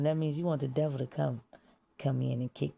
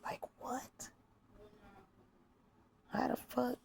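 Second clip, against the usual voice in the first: voiceless hushed whisper; whispered question; 4 semitones higher, 9 dB quieter than usual. Pretend. Audience member asking, in a whisper. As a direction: whisper like a confused listener.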